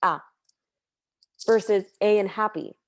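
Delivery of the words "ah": "Ah" popping in suddenly after a stop; crisp glottal ah. Shown as a demonstration. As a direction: snap "Ah" out crisply. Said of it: "crisp of a chip".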